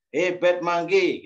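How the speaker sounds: slow, lightly scolding call to a naughty monkey; mild mock reprimand. Shown as a demonstration. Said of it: "gitu misalnya".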